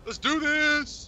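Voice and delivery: slow, high, loud rallying shout; rally the team like a hero; battle cry. Real, not acted.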